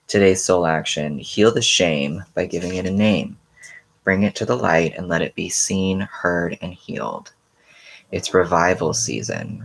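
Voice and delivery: inspirational reading. Acted. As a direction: read it like a daily affirmation. Reads daily soul action.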